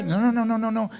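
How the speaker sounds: high string of refusals; emphatic, high objection; insistent correction. Real, not acted. Corrects the mimicked prayer.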